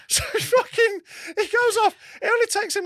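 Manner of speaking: very high animated retelling; exasperated. Real, not acted. Telling friends about the mechanic, exasperated. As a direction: blurt it out, still worked up.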